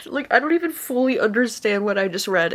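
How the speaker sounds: teary half-laugh; laughing through tears. Real, not acted. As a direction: laugh at your own tears. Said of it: "bawling my eyes out".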